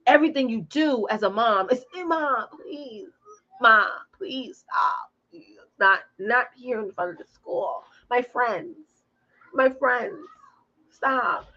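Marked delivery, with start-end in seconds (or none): 2.0-11.5 imitating a child's embarrassed plea; embarrassed kid. Kid to mom in front of the school, embarrassed. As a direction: plead like a mortified kid. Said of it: "she's just embarrassed".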